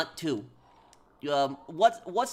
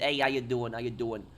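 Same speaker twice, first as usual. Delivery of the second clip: light New York City accent, casual; a touch of New York in a casual greeting; lighter New York accent; 2 semitones lower than usual. Shown as a demonstration. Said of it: "the lighter accent".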